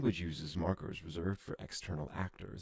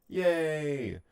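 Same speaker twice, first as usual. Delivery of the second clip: higher, louder little yay; happy cheer; 9 semitones higher, 7 dB louder than usual. Real, not acted. Player cheering a lucky roll, higher and louder.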